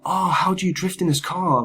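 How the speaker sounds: high-pitched put-on voice; mock an amazed fan's question; imitating online questioners. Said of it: "responses of people going".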